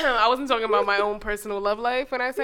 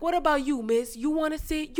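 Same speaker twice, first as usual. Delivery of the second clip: higher-pitched mock pestering; imitating insistent man; 7 semitones higher than usual. Man on the bus singling out a passenger, high mock insistence. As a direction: lift the pitch, nudging for an answer. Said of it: "there was this loud-ass man".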